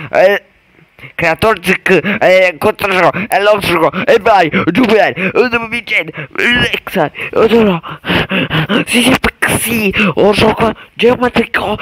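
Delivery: high, hammed-up fake Italian chatter; mock Italian. Gamer playing a level as a mock Italian commentator, high and hammed-up. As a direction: babble like an over-excited Italian caricature.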